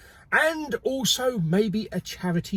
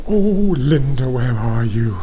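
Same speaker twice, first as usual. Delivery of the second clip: calling out; 5 semitones lower, 6 dB louder than usual. Real, not acted. Calling out for the lift.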